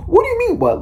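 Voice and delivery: high squealing mock disbelief, laughing through it; mocking laughter. Mimicking officers mocking her through laughs. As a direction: cackle the cops' fake surprise.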